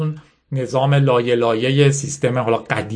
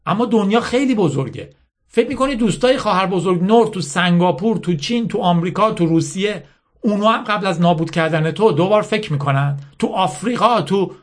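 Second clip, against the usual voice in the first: higher-pitched insistent lecture, lightly acted; bitter General Mala; 6 semitones higher than usual. Mala lecturing Yasmin on winners and losers, mildly bitter insistence. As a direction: drive the hard lesson home.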